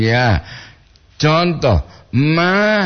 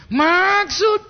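puzzled question. Real, not acted. Host puzzled by listener's message.

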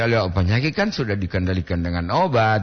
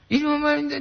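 mother's voice; faster than usual. Retold or imitated. Voicing a mother's words.

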